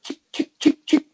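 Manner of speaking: sharp little "chick" noises; crisp repeated switch sounds; imitated flicking clicks. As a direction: mimic a light being flicked on and off. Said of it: "they be flicking it".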